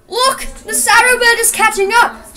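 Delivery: high-pitched story shout; acted shout, not full force. A narrator's reading. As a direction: call out high in alert. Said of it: "shouted Joe".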